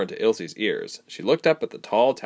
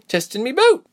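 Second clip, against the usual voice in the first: simple statement; 6 dB louder than usual. A narrator's reading. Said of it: "Reshma put simply".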